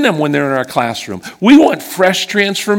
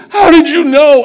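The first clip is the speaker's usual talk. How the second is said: astonished question; 10 semitones higher, 5 dB louder than usual. Retold or imitated. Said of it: "he goes".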